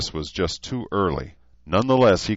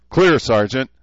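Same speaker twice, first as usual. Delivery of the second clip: shouted reply; 7 semitones higher, 7 dB louder than usual. Acted. Recruits answering drill sergeant.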